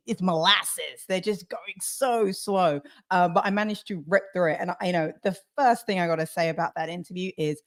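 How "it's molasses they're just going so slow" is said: slow, dragged-out words; stretched words, mimicking a slow talker. Shown as a demonstration. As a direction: drag it out like molasses. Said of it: "anybody who talks slowly".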